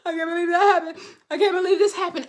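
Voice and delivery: softly retelling her own teary disbelief, half laughing; a touch of crying; retold crying. To the listeners, recalling her private breakdowns, mildly tearful. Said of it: "I was just crying".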